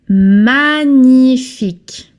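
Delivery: "magnifique" said slowly, man-yee-feek. Shown as a demonstration. Teacher slowly modelling "magnifique" for the class. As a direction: draw out "magnifique" with no hard g. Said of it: "you don't pronounce the G here".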